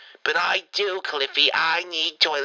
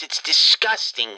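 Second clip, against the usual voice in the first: louder disgusted; 5 dB louder than usual. Acted. Grandma complains about dish towels.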